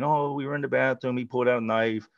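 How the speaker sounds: mock victim mode. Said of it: "they go into victim mode".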